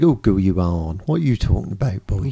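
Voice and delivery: Norfolk accent. Shown as a demonstration. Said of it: "it's more like".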